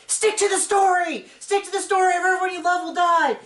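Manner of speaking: high, loud mock threat; menacing movie threat. Mocking the producers' coaching as a movie villain, loud threat. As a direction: bark the order like a kidnapper in a thriller. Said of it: "it has that same energy of".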